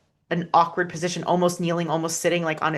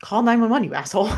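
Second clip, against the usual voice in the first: yelling; 5 semitones higher, 3 dB louder, faster than usual. Retold or imitated. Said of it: "I just yelled at him".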